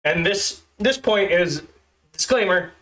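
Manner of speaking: stiff, awkward script reading; stilted robot reading. Shown as a demonstration. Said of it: "if it sounds like I'm a stilted robot".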